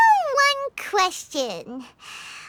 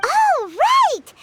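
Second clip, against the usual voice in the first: excited realization; 7 semitones higher, 4 dB louder than usual. Acted. Sudden realization.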